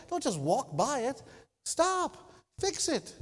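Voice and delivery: high sharp command; mock parental command. Preacher voicing a parent correcting kids, high stop. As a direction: tell the kid to halt.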